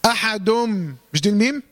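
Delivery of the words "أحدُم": احد said as "ahadum" with a held m; iqlab. Shown as a demonstration. Teacher showing students how to say احد, nun turned into held meem. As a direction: turn the ending of احد into a hummed m. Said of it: "هقولها ازاي؟".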